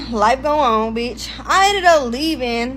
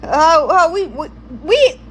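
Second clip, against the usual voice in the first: mock panic; 3 semitones higher, 3 dB louder than usual. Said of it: "Nah, I didn't say that".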